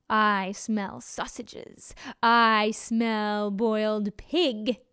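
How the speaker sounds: very slow, drawn-out wolf voice; werewolf. Acted. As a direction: savor each word hungrily. Wolf voice in story.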